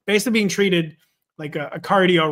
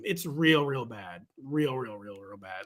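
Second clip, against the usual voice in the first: trailing off, softer each time; fading; 5 semitones lower, 6 dB quieter, slower than usual. Real, not acted. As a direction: let each real fade away. Repeating, fading.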